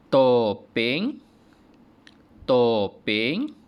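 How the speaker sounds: "Topeng" loud, rising; review repetition. Shown as a demonstration. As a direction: ulang "Topeng" dengan nada menaik. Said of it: "Cikgu ulang balik".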